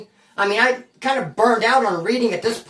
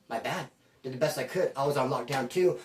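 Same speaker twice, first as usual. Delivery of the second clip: sheepish excuse; 7 semitones lower, 9 dB quieter than usual. Retold or imitated. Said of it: "he's like".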